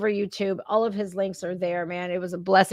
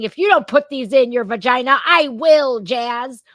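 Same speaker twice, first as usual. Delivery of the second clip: higher, louder mock threat from a mother; mock threatening mother; 3 semitones higher, 6 dB louder than usual. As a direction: ham up a mother's ultimatum. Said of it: "of your mother saying".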